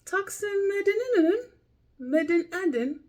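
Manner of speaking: high, loud put-on voice of the app lady; imitating the lady. Vlogger mimics the app's woman speaker, high and loud. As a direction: copy her odd pronunciation up high. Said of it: "She sounds like".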